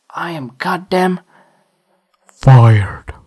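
fired barked as a hammed-up punchline; mock outrage. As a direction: punch fired hard and loud. Punchline of the rule.

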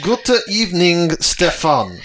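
put-on clumsy German greeting in an American accent. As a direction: mangle the German with an American twang. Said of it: "it's gonna be in an American accent".

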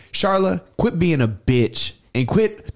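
high, slow scolding; mock-scold her by name; half-hearted high scolding; telling her off. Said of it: "I was like".

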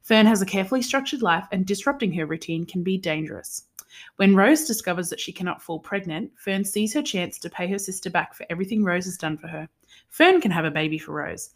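measured, scripted synopsis reading; book blurb read-aloud. Real, not acted. Host reading a novel's synopsis to her sister, read-aloud.

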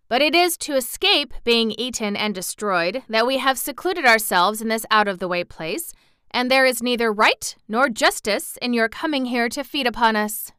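lightly voiced pompous town dignitary; self-important bun man, indignant. Bun man protesting to the hungry girl, mildly pompous. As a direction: lecture the intruder with some importance.

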